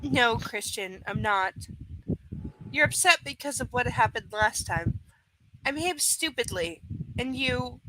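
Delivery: low, measured dialogue reading; subdued audiobook dialogue; story narration. A narrator's reading. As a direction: read the quarrel quietly from the page. Reads novel dialogue.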